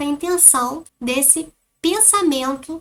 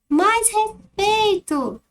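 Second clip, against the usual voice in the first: slow, higher, stern reprimand; stern rebuke; 8 semitones higher, much slower than usual. Shown as a demonstration. The offended adult demanding respect from the girl, stern and slow. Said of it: "como está a entonação do texto".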